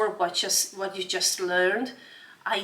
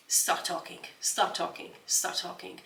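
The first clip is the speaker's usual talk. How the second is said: urgent whisper; 6 dB quieter than usual. Shown as a demonstration. Urging listeners to just speak.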